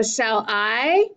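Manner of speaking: "shall I" slowly, drawn out on I; split into iambs. Shown as a demonstration. Teacher dividing the sonnet line, lengthened stress on "I". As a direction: stretch "I" in "shall I" as the stronger beat. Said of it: "Let's divide the first line into iambs".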